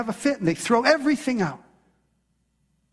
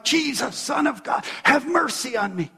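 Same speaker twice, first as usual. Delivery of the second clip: pleading cry; 4 semitones higher than usual. Acted. Woman crying out to Jesus.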